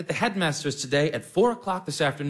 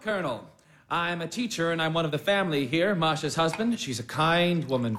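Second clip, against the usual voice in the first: ordinary talk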